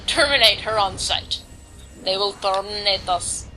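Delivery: a clumsy Austrian action-hero impression; half-hearted Austrian movie-robot accent; terrible Austrian accent. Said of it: "that was a terrible Austrian accent".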